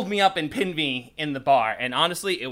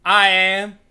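building to a loud proclamation; 5 dB louder than usual. Retold or imitated. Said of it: "And he said".

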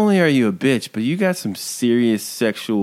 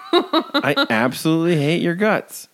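laughing insult; 6 semitones higher than usual. Real, not acted.

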